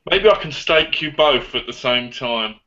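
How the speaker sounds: lightly voiced leprechaun; a hint of a leprechaun lilt. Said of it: "You sound like Leprechaun".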